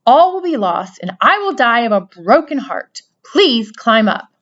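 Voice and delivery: loud, desperate begging; desperate plea. A narrator's reading. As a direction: plead as if heartbroken. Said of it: "said Wilbur in desperation".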